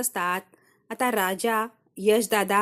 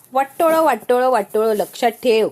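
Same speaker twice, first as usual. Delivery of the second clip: a mock yell, louder, hammering each word; retold shouting; 4 dB louder than usual. Father warning his daughter against Raja, in a retold mock shout. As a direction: imitate a father shouting a warning, half in earnest. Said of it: "ओरडून ओरडून सांगितलंय".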